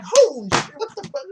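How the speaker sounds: high, loud mock outburst; hammed-up rowdy outburst; mock cheering guys. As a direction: shout it like a rowdy fan. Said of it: "they're just like".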